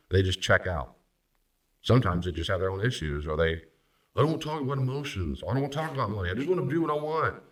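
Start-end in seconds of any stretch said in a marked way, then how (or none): 3.5-7.4 put-on childish whine. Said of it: "very childish thing".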